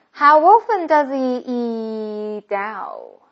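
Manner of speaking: stretched "How often does he eat out", "does he" as "duh-zee"; linked slow demo. Shown as a demonstration. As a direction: link "does he eat out" slowly, h dropped. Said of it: "这个字母T会划掉". (慢速示范 does he 连读)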